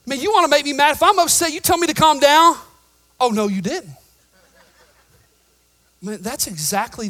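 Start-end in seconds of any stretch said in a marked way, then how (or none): 0.0-2.6 higher and louder, feigned outrage; mock indignant. Real, not acted. Mock indignation at being calmed. 3.2-4.0 sassy comeback. Retold or imitated. Sassy reaction quote.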